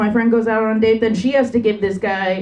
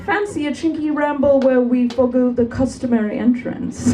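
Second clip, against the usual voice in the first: whimsical British gent; 3 semitones higher than usual. Retold or imitated. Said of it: "make anal sound whimsical".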